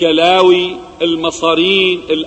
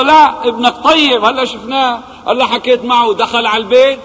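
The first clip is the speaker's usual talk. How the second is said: higher, bright news-bearer voice; joyful good news; 7 semitones higher than usual. Acted. Someone rushes to tell the father his son is fine, excited. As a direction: rush to reassure him his son is fine.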